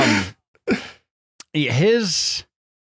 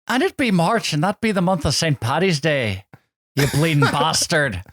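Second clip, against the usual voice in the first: mock Irish accent; 2 semitones higher than usual. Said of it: "I'm not gonna do this accent".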